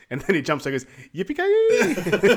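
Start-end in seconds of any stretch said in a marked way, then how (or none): 1.1-2.3 very high, loud, stretched-out yell; hammed-up rodeo war cry; cowboy whoop. Sanka jumping into the bar fight, hammed-up cowboy whoop.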